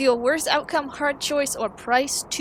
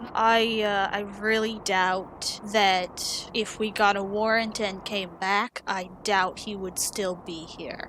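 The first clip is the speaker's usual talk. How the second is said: slow, weary sigh of doubt, trailing softer; 2 semitones lower, 3 dB quieter, slower than usual. Acted. Martin doubts the man will still be there, sighing. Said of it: "he sighs and he says".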